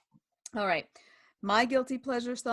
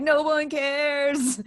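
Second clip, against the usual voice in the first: retold yell; 6 semitones higher, 4 dB louder, much slower than usual. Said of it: "where I'd yell, like".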